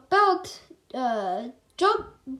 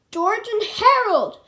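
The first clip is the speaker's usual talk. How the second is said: loud, higher call of the names; shouting names; 7 semitones higher, 7 dB louder than usual. A narrator's reading. Principal shouting for the two boys in the cafeteria, loud. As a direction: bellow their names across the cafeteria. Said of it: "shouted Mister Krupp".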